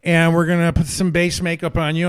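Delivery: imitating a gay makeup guy. Makeup guy bossing the actor around, high and loud mock voice. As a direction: mimic the chirpy stylist taking charge. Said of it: "this gay makeup guy comes in".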